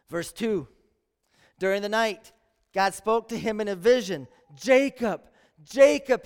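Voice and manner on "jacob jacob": loud, ringing call of a name. Acted. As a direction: call his name across the dark. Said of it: "he called".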